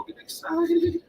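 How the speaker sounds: high, drawn-out hype call; excited catchphrase. Real, not acted. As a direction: stretch it out long and high. Catchphrase opening the live stream.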